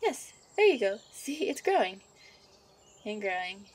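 a gentle witch fussing over her sweetheart; a hint of a bubbly witch girlfriend; young witch character.

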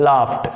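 "laughed" ending in a crisp T sound; t-sound pronunciation. Shown as a demonstration. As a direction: say "laughed" as "laft". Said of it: "టీ అనే sound వచ్చే విధంగా".

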